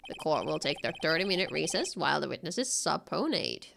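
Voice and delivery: the judge weighs in from the bench. Acted.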